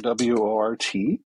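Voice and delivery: slow, letter by letter; spelling it out. Shown as a demonstration. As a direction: spell each letter out slowly. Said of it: "Can you spell lousewort?".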